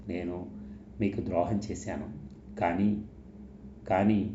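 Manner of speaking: subdued, broken up by pauses; hesitant confession, holding back tears; soft and halting. A narrator's reading. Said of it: "మెల్లగా ఆగి ఆగి అంది".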